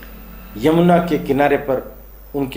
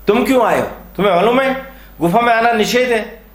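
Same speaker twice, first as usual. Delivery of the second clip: higher-pitched, mildly angry challenge; indignant scolding; 6 semitones higher than usual. Acted. Sage to Sumantu entering the forbidden cave, mildly indignant scolding. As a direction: scold the intruder with a touch of indignation.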